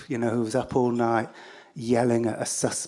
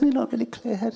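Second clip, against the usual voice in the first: high, garbled robot voice; lightly voiced confused robot; mild robot impression; 12 semitones higher, faster than usual.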